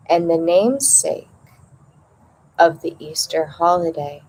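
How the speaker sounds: measured read-aloud in short phrases with pauses; meditation reading. Acted. Host reading the opening passage on rebirth to listeners, measured meditation reading.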